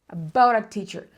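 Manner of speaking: "About a teacher" linked, both a's as schwa; weak uh for each "a" in "About a teacher"; reduced linked phrase. Shown as a demonstration. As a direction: glide through "About a teacher" without breaks. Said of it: "ditas de forma reduzida".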